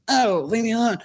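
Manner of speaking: annoyed whine. Retold or imitated. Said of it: "And I was like".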